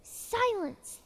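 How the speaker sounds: high, loud angry bark; barked command. Acted. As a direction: snap it out like an angry king. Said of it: "barked back".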